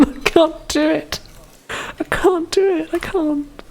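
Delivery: very high, drawn-out squeak; stretched falsetto whine of giving up; helpless squeal. Pretend. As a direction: squeal it out slowly in mock defeat. Gives up on the accent attempt.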